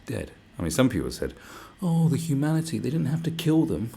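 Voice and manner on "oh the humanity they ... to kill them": high, loud mock lament; mock outrage. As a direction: parody a bleeding-heart complainer. Mocking people who pitied the attackers.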